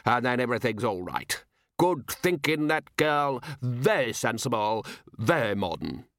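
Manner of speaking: condescending posh gentleman. Acted. Condescending dinner guest.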